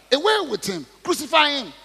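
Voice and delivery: high loud shouted demand; yelling mob. Acted. Crowd yelling at Pilate for crucifixion, loud shout. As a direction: scream for his death. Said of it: "They yelled".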